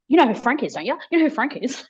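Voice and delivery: put-on half-laughing disbelief at the baby; amazed Nan. Nan amazed the baby names dead Frank, high laughing disbelief. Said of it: "Nan's like".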